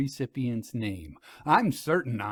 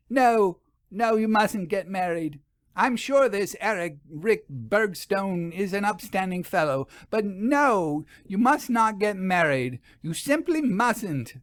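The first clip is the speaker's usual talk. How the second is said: alarmed pleading; 7 semitones higher than usual. A narrator's reading. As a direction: beg her not to marry.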